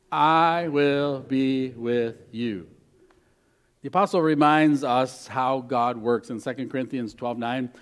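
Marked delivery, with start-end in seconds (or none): 0.1-2.7 slow unison recital. Shown as a demonstration. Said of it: "Will you say that with me?".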